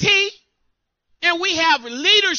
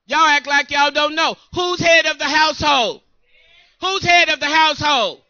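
louder, pressing the question; calling out; 4 dB louder than usual. Real, not acted. Preacher challenging the congregation to answer, loud. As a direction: demand an answer from the room.

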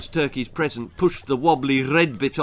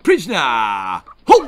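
parade-ground yell; screamed; 8 dB louder than usual. A narrator's reading. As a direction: scream a halt like a drill sergeant. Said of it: "screamed the new turkey".

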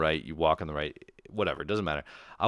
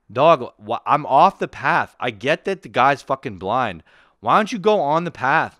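loud, worked-up protest; exasperated rant; 2 semitones higher, 6 dB louder than usual. Acted. Walker protesting to the helper that he's off the path, loud exasperation. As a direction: plead your case with mounting irritation, voice climbing.

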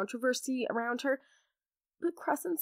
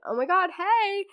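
much higher, louder flirty hey; flustered mock swoon; 8 semitones higher, 6 dB louder than usual. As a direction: act giddy and smitten. Heroine flustered by Wrath.

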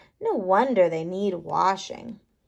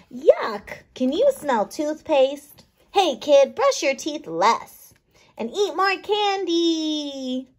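lightly voiced little microbes, curious; small bugs chatting in a mouth; microbe characters; 5 semitones higher, slower than usual. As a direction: play the tiny cavity-diggers with cheeky glee.

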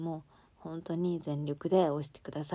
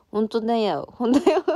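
insistent; 5 semitones higher, 10 dB louder than usual. Real, not acted. Insisting she isn't drunk.

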